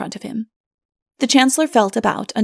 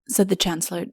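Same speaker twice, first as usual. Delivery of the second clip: ordinary delivery, nothing marked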